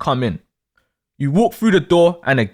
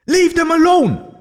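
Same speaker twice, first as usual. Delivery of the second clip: high slow angry shout; fuming; 10 semitones higher, 3 dB louder, slower than usual. Acted. Pupil shouting at ignoring bullies, slow fuming shout. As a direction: drag out each word in fury. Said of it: "You're fuming inside".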